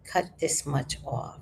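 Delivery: slow, drawn-out controlled question; real calm. Retold or imitated. Client to hairdresser after a bad cut, slow and calm. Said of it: "I was real calm".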